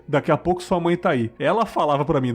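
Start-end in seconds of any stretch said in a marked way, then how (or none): 0.1-1.3 lightly voiced entity, pitched a little up; higher spirit voice. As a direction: reassure the boy in a mildly altered voice. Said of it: "uma voz mais aguda". (leve imitação de voz mais aguda)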